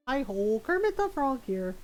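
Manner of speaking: lightly voiced puppet frog; a hint of frog puppet impression; Kermit the Frog. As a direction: introduce yourself as a puppet frog, not too big. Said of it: "I can also do Kermit".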